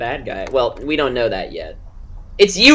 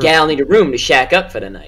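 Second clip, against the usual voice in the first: put-on old-timey drifter voice; 3 semitones higher, 6 dB louder than usual. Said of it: "something a powder ganger would say".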